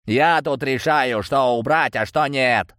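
lightly voiced cold thug, slow; a touch of cold menace. A narrator's reading. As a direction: say it slowly like a cold gang boss. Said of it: "холодно ответил Ветерок".

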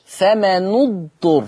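slow فمن اضطر as "fama-nu-dturr"; damma on the nun. Shown as a demonstration. Teacher shows Warsh's reading, slow "fama-nu-dturr" for فمن اضطر. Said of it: "يقرأ ورش".

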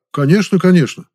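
cheerful smiling interruption; beaming interruption. A narrator's reading. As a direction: brush him off with a sunny smile. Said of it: "лучезарно улыбаясь".

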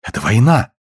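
shaky, near tears; trembling voice. A narrator's reading. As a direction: let the voice tremble with dismay. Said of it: "дрожащим голосом проговорила она".

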